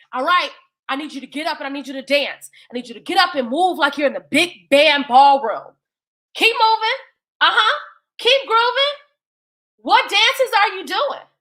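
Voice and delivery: lightly voiced hype dancer calling out; a touch of a party host egging everyone on. Sunday hypes the dancing brothers.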